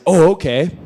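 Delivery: high, loud sudden okay; mock doorman backing down; caught-out okay. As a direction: give in, surprised. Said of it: "And the guy's like".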